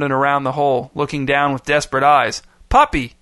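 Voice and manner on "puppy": very high call, slightly louder; mild shout. A narrator's reading. Boy calling down the hole to his puppy, high mild shout. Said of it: "he shouted".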